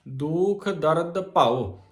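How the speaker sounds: slow phrase falling to rest on ਭਉ; pause after ਭਉ. Shown as a demonstration. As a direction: come to a stop on ਭਉ. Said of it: "ਭਉ ਤੇ ਵਿਸਰਾਮ ਆ". (ਭਉ ਤੇ ਵਿਸਰਾਮ)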